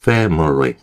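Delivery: family with no full "mi"; family with the middle vowel dropped; reduced family. Shown as a demonstration. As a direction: say family as FAM-ly. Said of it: "밀리가 아니라요".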